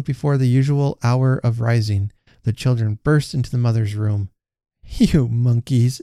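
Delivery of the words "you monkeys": drawn-out, fond mock scolding; smiling cry. A narrator's reading. Mother greeting her children, smiling cry. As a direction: tease the children with a smile, slowly. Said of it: "she cried, smiling".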